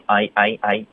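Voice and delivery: I, I, I with the jaw sliding open to closed; jaw-gliding diphthong. Shown as a demonstration. Teacher drilling the diphthong slowly. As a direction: slide the jaw through I. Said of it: "注意下颚滑动".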